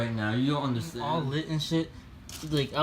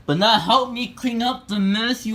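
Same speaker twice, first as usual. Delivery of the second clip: complaining loudly; 7 semitones higher, 6 dB louder than usual. Real, not acted. Complaining to mom.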